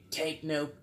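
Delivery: a hint of a demonic voice; lightly put-on demon voice. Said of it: "like, this demonic voice".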